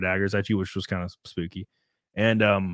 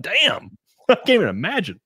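laughing disbelief; 10 semitones higher, 5 dB louder than usual. Retold or imitated. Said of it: "I'm like".

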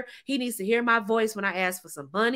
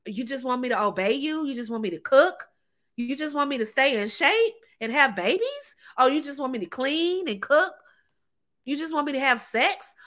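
incredulous rising questions; mock disbelief. Woman checking a man's easy offer, mock disbelief. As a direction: check each easy demand as if amazed.

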